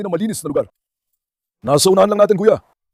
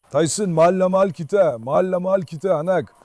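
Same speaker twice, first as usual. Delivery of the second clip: tender. Real, not acted. Praising the dog.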